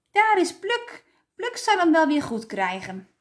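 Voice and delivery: put-on high, lifted cry of children; children calling out happily; excited calling out. A narrator's reading. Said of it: "riepen ze".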